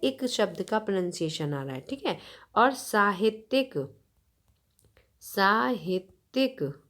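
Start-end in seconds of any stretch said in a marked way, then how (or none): 2.6-6.8 साहित्यिक said slowly, each syllable clear; slow word demo. Shown as a demonstration. Teacher showing children a new word, slow and clear. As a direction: draw out साहित्यिक for the class. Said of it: "साहित्य से संबंधित साहित्यिक".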